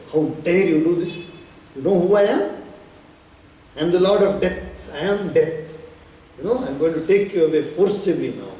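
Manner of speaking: angry. Acted. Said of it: "Yama becomes angry".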